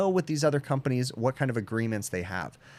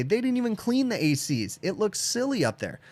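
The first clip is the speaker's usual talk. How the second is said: mock complaining tech; 10 semitones higher than usual. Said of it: "walk behind one of these cleaning companies and say".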